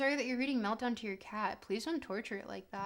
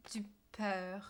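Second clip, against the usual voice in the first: whisper; 3 semitones lower, 6 dB quieter than usual. Real, not acted. Whispered repeat of French phrase.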